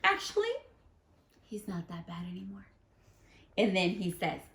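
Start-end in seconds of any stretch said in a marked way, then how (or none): 0.0-2.6 a hint of a chirpy nut; mild nut voice. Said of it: "And this nut says".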